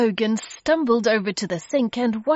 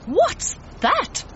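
high, startled question; mild shriek; 13 semitones higher than usual. A narrator's reading. Mister Logan sees a bus approaching, mild startled shriek. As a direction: jump up in pitch with alarm, not volume. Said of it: "Mister Logan shrieked".

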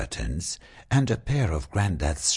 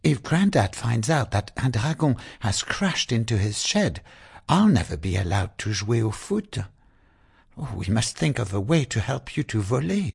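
higher, fast, anxious rush; hurried worry; 6 semitones higher, faster than usual. Acted. Zoe fears Grandad will find the dragon, rushing anxiously. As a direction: gabble it out in a worried hurry.

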